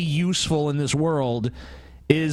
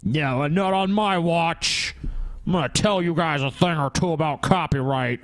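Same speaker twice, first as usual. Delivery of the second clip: mad scientist. Pretend. Mock creator villain rant.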